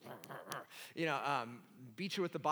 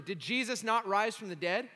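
louder, rising insistence on "not"; pressing harder; 5 semitones higher, 6 dB louder than usual. Retold or imitated. Mentor Harold pressing Sean with louder, urgent questions. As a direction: push the question home, urgent.

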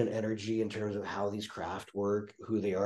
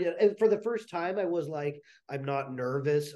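stuffy, nasal from allergies; 3 semitones higher than usual. Real, not acted. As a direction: speak through a blocked nose. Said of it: "it sounds so nasally right now".

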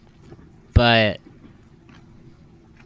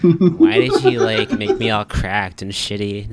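whiny pottery voice; 3 semitones lower, 3 dB louder than usual. Pretend. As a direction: whine like a cracked pot. Pottery voiced complaining to maker.

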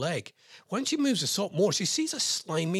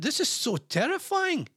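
mock dramatic horror; 11 semitones higher than usual. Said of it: "One user commented".

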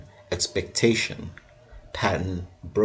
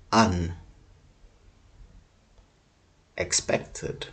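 stretched out very slowly; very slow drawn-out; 3 semitones lower, 4 dB quieter, much slower than usual. Acted. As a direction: drag the word out. Drawn-out odd delivery.

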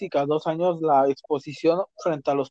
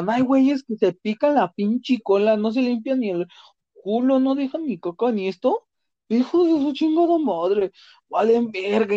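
Mexican cholo street accent, higher and rough-edged; cholo slang voice; 4 semitones higher than usual. Shown as a demonstration. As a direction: slip into a cholo accent, swaggering. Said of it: "Me voy a poner a hablar como cholo".

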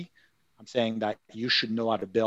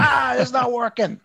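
high, slow whiny complaint; whiny user; 11 semitones higher, 3 dB louder than usual. Retold or imitated. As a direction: whine like a frustrated user. Mocking a GitHub user complaint.

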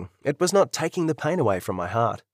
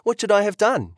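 much higher, exasperated challenge; exasperated demand; 9 semitones higher than usual. Acted. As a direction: demand an answer, fed up. Couple quarrel in hospital.

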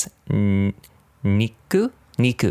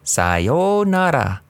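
high, stiff, evenly pitched Gyunyu; mock text-to-speech voice; robotic language app voice; 7 semitones higher, much slower than usual. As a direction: mimic a language-learning robot. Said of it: "the voice robots speaking always are like".

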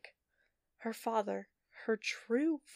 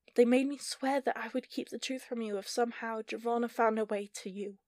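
earnest, raised pleading; 3 semitones higher, 5 dB louder than usual. Acted. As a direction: beg her to understand.

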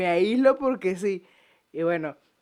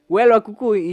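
"Huele" pushed out louder; louder second take, stressing "Huele"; louder repeat; 6 dB louder than usual. Shown as a demonstration. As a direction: say it again, louder and fed up.

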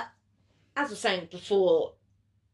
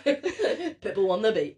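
laughing; slower than usual. Real, not acted. Joke, laughing.

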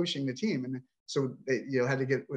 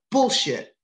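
angry outburst; 7 semitones higher, 4 dB louder than usual. Real, not acted. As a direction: spit out the word bullshit sharply, high and loud. Angry outburst about no help.

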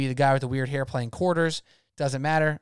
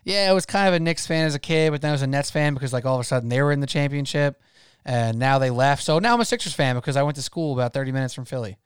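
mocking Jersey boy fan. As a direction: rattle it off like a bandwagon fan. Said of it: "Not like these two Jersey boys".

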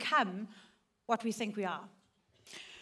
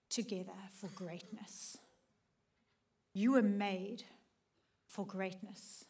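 hushed encouragement; 3 semitones lower, 8 dB quieter than usual. Retold or imitated. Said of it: "he looked at me and he said".

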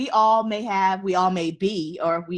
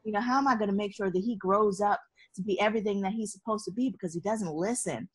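retold crying; 4 dB quieter, faster than usual. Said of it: "I was just crying and crying because I was like".

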